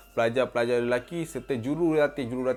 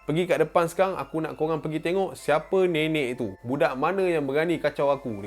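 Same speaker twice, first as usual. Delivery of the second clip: bossy yell; 4 semitones higher than usual. Retold or imitated. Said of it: "Dia jerit".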